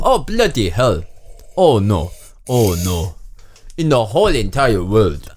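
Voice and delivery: put-on botched Indian accent drifting elsewhere; hammed-up, muddled foreign accent. Stranded man despairs, muddled African-sounding accent.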